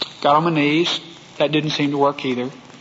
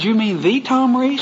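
"the" said as a stressed "thee"; 5 semitones higher than usual. Retold or imitated. Texan asking about a famous evangelist, amazed stress on "the". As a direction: raise the pitch and lean on "the", as "thee".

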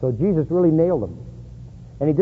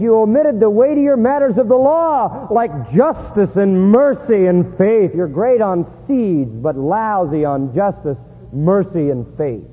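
slow, weighty sermon emphasis; emphatic preaching; slower than usual. Acted. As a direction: lean hard on each key noun. Preaches the scripture rebuke.

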